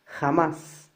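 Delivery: "Jamás" with the force on MÁS; final-syllable stress. Shown as a demonstration. Teacher shows where the force falls, stress on MÁS in "Jamás". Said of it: "la mayor fuerza de voz recae acá".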